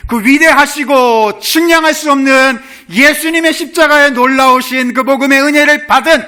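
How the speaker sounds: high, loud sermon peak; full-throated pulpit cry; preaching at full force. Acted. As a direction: lift the congregation with fervor. Preaching climax.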